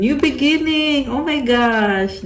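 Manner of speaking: high, loud excited squeal; excited, stretching out the gasped words; thrilled reaction. Real, not acted. Thrilled reaction to card just drawn.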